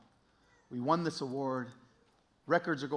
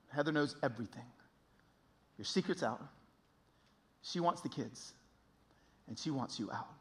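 pitying; 6 dB quieter than usual. Retold or imitated. Friends at the door delivering his wife's verdict, pitying. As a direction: break it gently, with heavy pauses. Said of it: "this look of pity on their face".

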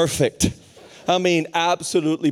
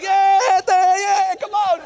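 high, loud crowd whoops; imitated cheering; 6 dB louder, much slower than usual. Students answering the preacher, imitated cheering. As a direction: cheer back at full pitch like a crowd.

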